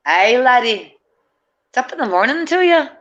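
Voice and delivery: high, hammed-up Aussie accent greeting; mock Aussie accent. Greeting the camera as a joke in a high, put-on Aussie accent. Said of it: "That's that Aussie accent".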